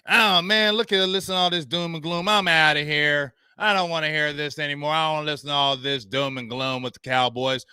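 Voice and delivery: a mild mock of a whiny fan; imitating a Cowboys fan. Host mocking Cowboys fans who quit listening, light imitation. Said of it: "I hear these some Cowboys fans".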